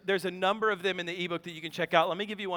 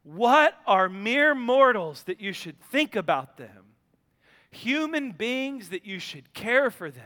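scripture reading. Acted. Reads Psalm eight.

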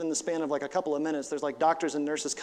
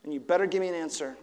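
hushed desperate question; 6 dB quieter than usual. Retold or imitated. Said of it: "staring at the gallows and going".

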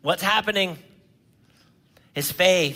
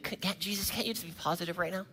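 mock plea; 9 dB quieter, faster than usual.

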